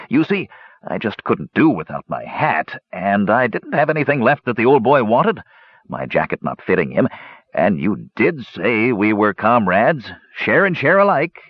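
lightly voiced dwarf making excuses; a hint of a sheepish dwarf gambler; hedging dwarf. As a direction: wheedle a little as you explain. Dwarf hedges his confession.

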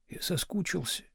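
very soft apologetic whisper. A narrator's reading. Husband whispering to his wife in bed, apologetically. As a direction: breathe it, apologising. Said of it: "прошептал Слушкин".

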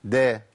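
دا as an open "da"; dal with fatha. Shown as a demonstration. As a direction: sound دا as d plus "a". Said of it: "الدال المتحركة". (دا بدال مفتوحة)

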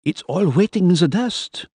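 high-voiced, gloomy insisting; gloomy insistence. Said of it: "Miller insisted, gloomily".

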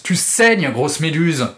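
sharp cry of "Tu saignes"; violent shout. Acted. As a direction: lash out at her with disgust. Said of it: "cria brusquement Sue avec violence".

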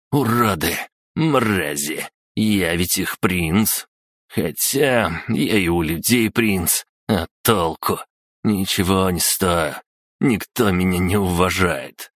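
put-on slow, slurred drunken outburst; drunk angry rant. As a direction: rage like a sloppy drunk. Пьяная злость Саши. (пьяная злая тирада)

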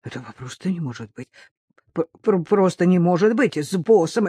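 stammering, hushed start growing firmer; stunned disbelief. Acted. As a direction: stumble over words in shock. Shocked friend stammers in disbelief.

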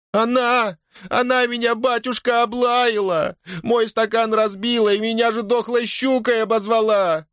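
high, whiny accusing wail; daughter-in-law accusing the younger one to the merchant; tearful complaint. Acted. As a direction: tattle on her like a hurt child. Милодора complains, pointing at Дашутка.

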